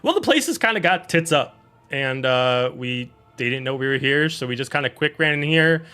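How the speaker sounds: a hint of a brisk, chatty druid; lightly voiced druid. Fox the Druid explaining herself to the party, lightly voiced. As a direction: talk fast and casual like a flustered ally.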